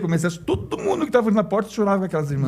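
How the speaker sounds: moved. Real, not acted. Moved to tears at church door.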